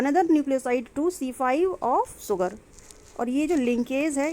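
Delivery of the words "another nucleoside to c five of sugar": very slow, word by word; dictating notes. Shown as a demonstration. Teacher dictating the linkage definition to students, very slow. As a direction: spell it out so students can write it down.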